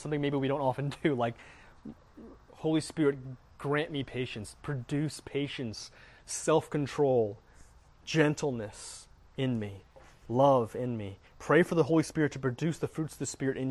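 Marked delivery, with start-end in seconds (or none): 2.5-11.2 humble murmured prayer. Acted. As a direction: pray it gently, word by word. Spoken prayer.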